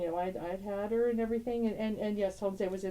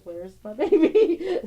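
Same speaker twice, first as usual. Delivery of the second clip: put-on slow, high and loud, drawn-out baby; little son's excited call; 8 semitones higher, 12 dB louder, much slower than usual. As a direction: stretch out baby like a thrilled toddler. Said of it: "That's exactly what he said".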